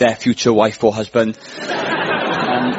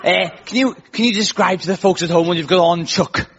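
attempted Scouse accent; imitating a singer and TV host; 3 semitones higher than usual. Shown as a demonstration. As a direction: put on rough Scouse for a game-show host's question. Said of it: "that's how you do a Scouse accent".

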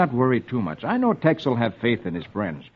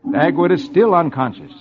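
ordinary delivery

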